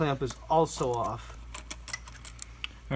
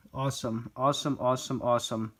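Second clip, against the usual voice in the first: flat sarcastic awesome; deadpan, mocking delight; 2 semitones lower, 4 dB quieter than usual. Real, not acted.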